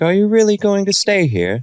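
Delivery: put-on very high girlish voice with a vague English accent. A speaker quotes a girl's question, imitating her kind-of English accent. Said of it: "this girl with like a kind of English accent".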